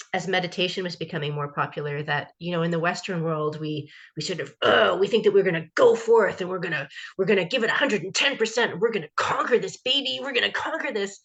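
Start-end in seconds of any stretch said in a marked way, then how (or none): 4.6-11.2 lightly hammed-up go-getter pep talk; gung-ho determination. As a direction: mimic over-eager resolve, starting loud. Mimicking Western go-getter attitude to meditation.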